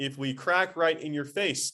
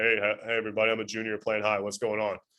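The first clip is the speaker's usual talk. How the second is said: put-on broken-voice teenager, dropped deep and low; 4 semitones lower than usual. A teacher imitates a former freshman, now a junior, greeting everybody: deep teen voice. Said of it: "Your voice changed. You got deeper".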